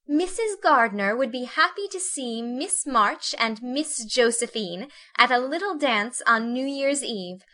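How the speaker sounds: put-on high, girlish reading of an invitation; lilting, high-pitched young lady; girlish delight. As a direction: read it out with delight. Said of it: "read it with girlish delight".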